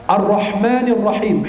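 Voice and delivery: Ar-Rahmanir Rahim slowly, each h tight in the throat; clear ha. Shown as a demonstration. Preacher modelling the verse, Ar-Rahmanir Rahim with clear throaty h. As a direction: make the pharyngeal h in Ar-Rahmanir Rahim distinct. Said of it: "haknya juga diperjelas".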